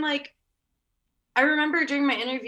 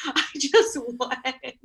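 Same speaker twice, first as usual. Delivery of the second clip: slow, stretched words through laughter; retold admission, giggling as it comes out; laughing confession; 2 semitones higher, much slower than usual. Candidate telling boss she went without permission, laughing.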